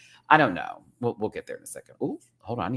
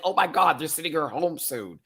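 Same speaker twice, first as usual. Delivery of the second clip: alarmed realization; 8 semitones higher than usual. Retold or imitated. Realizing Kasha is going home, alarmed. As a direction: panic at the bad edit. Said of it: "I was like".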